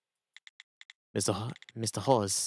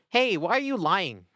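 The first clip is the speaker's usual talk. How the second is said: put-on Australian accent; 7 semitones higher, slower than usual. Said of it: "losing my Australian".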